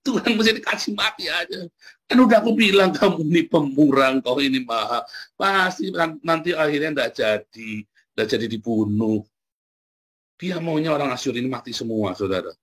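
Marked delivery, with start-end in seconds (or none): 0.0-9.2 annoyed Yunus complaining. Retold or imitated. Yunus grumbles at God over spared Nineveh, mock annoyed whine. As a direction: whine to God like a sulking prophet. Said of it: "Jengkel Yunus".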